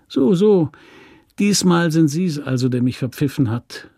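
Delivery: a hint of a whiny, nasal prisoner; lightly whining, sneering tone. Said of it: "mit seinem merkwürdigen, fast winselnden Genäsel".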